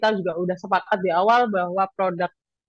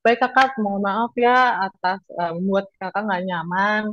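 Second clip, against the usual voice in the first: apologetic service voice. Shown as a demonstration. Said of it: "sebisa mungkin kita maaf dulu".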